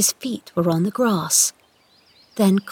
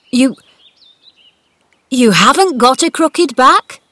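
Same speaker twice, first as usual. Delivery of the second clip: put-on stunned old man; 5 semitones higher, 7 dB louder than usual.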